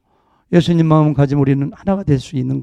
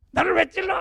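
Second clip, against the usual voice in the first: imitated indignation; 14 semitones higher, 7 dB quieter than usual. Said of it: "하면서 막 싸우면".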